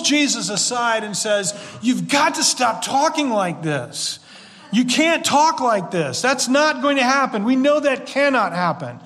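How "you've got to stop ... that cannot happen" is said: mildly irritated, insistent protest; acting out a touch of exasperation. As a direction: push back firmly, as if correcting a friend. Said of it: "Peter gets irritated".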